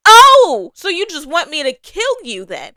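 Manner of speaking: hammed-up furious disbelief; mock indignant outburst. Indignant reaction for Damon.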